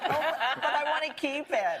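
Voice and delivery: put-on a tiny girl who wants to keep it, half-laughing; imitating a toddler.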